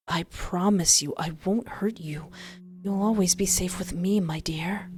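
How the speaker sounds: soft whispered promise. Acted. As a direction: whisper it tenderly to calm her. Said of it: "His voice is softer".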